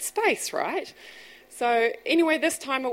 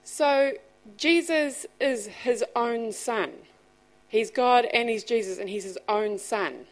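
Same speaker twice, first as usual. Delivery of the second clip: put-on child working it out; 4 semitones higher, slower than usual. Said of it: "he says to me".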